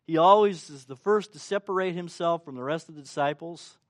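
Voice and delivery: ordinary delivery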